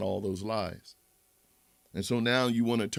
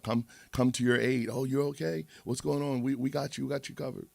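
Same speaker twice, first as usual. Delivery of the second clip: villagers; 6 semitones higher than usual. Acted. Villagers rush to help.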